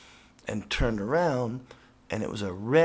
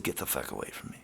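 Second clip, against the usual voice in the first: low whispered snarl; 9 semitones lower, 8 dB quieter, faster than usual. Retold or imitated. Telling the women to leave.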